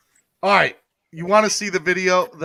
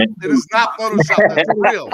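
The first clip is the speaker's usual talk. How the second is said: loud, higher-pitched insistence; emphatic protest; 4 semitones higher, 9 dB louder than usual. Real, not acted. Streamer rebutting a viewer who cried Photoshop, emphatic protest. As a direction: push back hard, excitedly.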